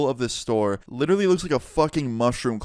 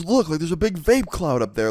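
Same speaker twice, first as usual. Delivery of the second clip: higher-pitched mock outrage; indignant manager; 6 semitones higher, 3 dB louder than usual. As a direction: imitate an exasperated accuser. Manager arguing, pointing at cloud.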